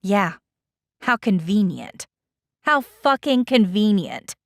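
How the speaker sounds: dry, sarcastic sneer; mock her with sarcasm. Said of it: "Edda's sarcasm".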